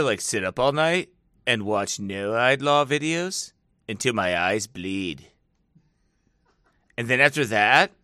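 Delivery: low, lolling stoner voice; spaced-out stoner planning. Acted. Announcing an all-night video binge, stoner voice. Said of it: "I know I sound like a stoner".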